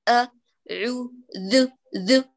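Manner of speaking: أ, عو, ذ sounded alone. Shown as a demonstration. Teacher dissects each sound for students. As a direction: pick apart أعوذ letter by letter. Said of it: "لو سمعت الصوت لوحده".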